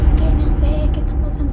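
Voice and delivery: suddenly loud, frustrated complaint; frightened girl blurting out loudly after all the hushing; loud outburst. Retold or imitated. She bursts out after whispering.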